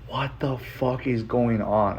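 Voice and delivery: slow, drawn-out disbelief; retold bewildered reaction; stunned disbelief. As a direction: stretch each word, dumbfounded.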